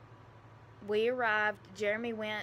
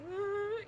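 high-pitched drawn-out "uhh" wail; pitched-up tearful moan; mock crying whine; 12 semitones higher than usual. Imitates crying whine when asked.

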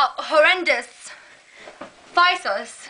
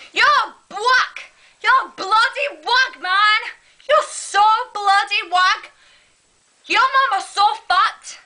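a hint of British street slang accent; lightly put-on British ghetto accent, mocking; 3 semitones higher, slower than usual. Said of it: "British ghetto accent".

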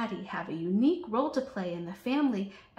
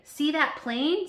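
higher, slow pointing-out voice; excited; 7 semitones higher, 6 dB louder, slower than usual. A narrator's reading. Sarah spotting a plane from the sky, excited high voice. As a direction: call out with wonder. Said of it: "says Sarah excitedly".

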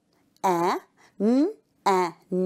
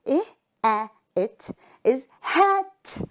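hat said slowly and higher; slow sounding out; 3 semitones higher than usual. Shown as a demonstration. Teacher blending hat for pupils, slow and lifted. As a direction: stretch and lift the word hat.

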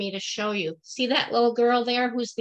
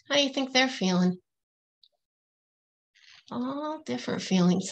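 ordinary talk, nothing marked

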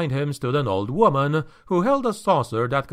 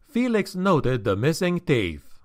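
ordinary delivery, nothing marked

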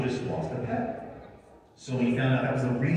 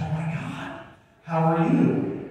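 higher, drawn-out delighted greeting; acted gushing surprise, slowing at the end; imitated starstruck wife; 5 semitones higher, slower than usual. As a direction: mimic a thrilled fan on the phone. Acting wife thrilled by favorite actor.

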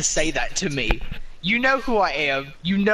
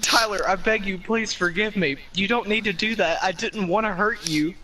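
overacted, higher begging; hammy pleading; 5 semitones higher than usual. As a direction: beg him like a soap opera heroine. Pleading melodrama, pitch raised.

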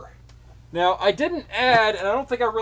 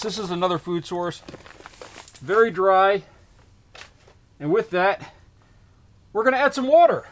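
muffled through a mask. Real, not acted. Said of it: "sorry, I'm gonna sound a little muffled".

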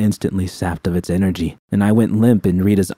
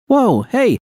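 much higher, louder alarmed shout; 4 dB louder, slower than usual. A narrator's reading. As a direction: yell to stop the fight. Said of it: "Susie shouted".

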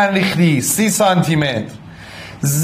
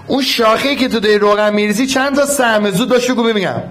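eager quick quizzing; 5 semitones higher, faster than usual. Real, not acted. Quizzing the class again.

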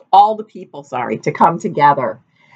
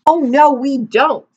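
mock denial; 9 semitones higher than usual. A narrator's reading. Villagers pretending.

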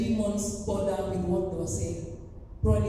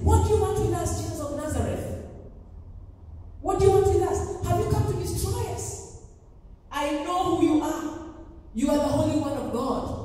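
crying out; 5 semitones higher than usual. Retold or imitated. Possessed man confronts Jesus in the synagogue, crying out. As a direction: imitate a possessed man calling out in challenge. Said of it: "A man cried out".

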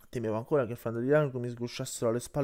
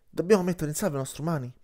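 raised, louder urgent command; curt bark; 5 semitones higher, 6 dB louder, faster than usual. A narrator's reading. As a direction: bark it out sharply to the pack. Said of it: "abbaiò seccamente Marra".

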